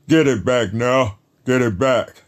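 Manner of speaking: stern drill-instructor command; Marine voice. Retold or imitated. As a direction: bark it like a Marine. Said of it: "my Marine voice".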